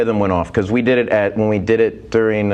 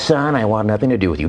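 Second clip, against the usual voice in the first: Casey Kasem. Retold or imitated. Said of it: "And he goes".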